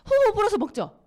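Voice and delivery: high, loud mock blowing; playful demo. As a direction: blow on it eagerly, teasing. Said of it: "blowing on dropped pill". (떨어진 알을 후후 불며 장난스럽게)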